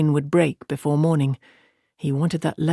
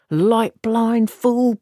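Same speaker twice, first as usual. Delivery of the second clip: higher, drawn-out cry of alarm; alarmed shout; 6 semitones higher, much slower than usual. Acted. Tom crying out from the loft as men draw knives. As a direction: yell it as the knives come out.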